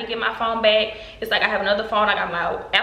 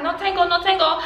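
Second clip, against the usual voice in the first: thief's protest; 9 semitones higher than usual. Retold or imitated. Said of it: "So when he like".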